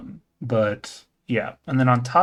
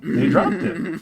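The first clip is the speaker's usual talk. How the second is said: excited disbelief; 14 semitones higher, 5 dB louder, slower than usual. Real, not acted. Excited surprise at price cut.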